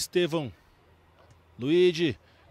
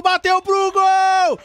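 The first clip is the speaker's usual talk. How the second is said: excited shout; 11 semitones higher, 8 dB louder, slower than usual. Real, not acted. Shot on goal.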